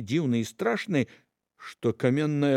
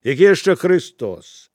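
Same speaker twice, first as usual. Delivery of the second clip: grumbling; 7 dB louder than usual. Acted. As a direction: grumble it under your breath. Peasant woman scolds apostles.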